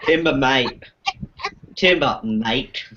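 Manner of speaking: mock Aussie, drawn out; playful Australian imitation; Australian accent. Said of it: "more south it's".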